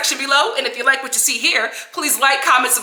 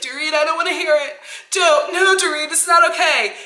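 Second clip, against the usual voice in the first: higher-pitched imitation of an upset refusal; mock upset; 6 semitones higher than usual. Host acts out Kyle fending off Dorit, mock upset. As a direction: protest like a friend who's fed up.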